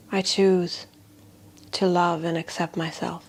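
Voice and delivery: calm, measured voice with long pauses; guided meditation. Shown as a demonstration. Healer leading a tapping affirmation for fear, guided meditation. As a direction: lead them gently, phrase by phrase, softening at phrase ends.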